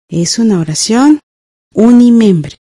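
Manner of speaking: teacher dictating, long pause before the key word; dictation in chunks. Shown as a demonstration. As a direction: dictate in two parts, pausing before the last word. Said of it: "Escribamos en la línea de la derecha".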